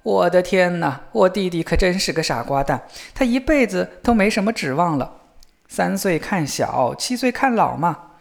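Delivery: a touch of amused disdain for a silly brother; mocking older brother. Brother scornfully thinks younger one hopeless.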